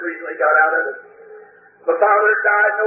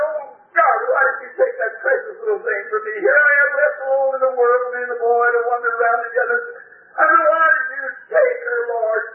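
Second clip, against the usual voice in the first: high, anguished plea; high, grieving cry to heaven; anguished cry to God; 4 semitones higher than usual. Retold or imitated. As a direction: plead with God in grief. Retells crying out to God.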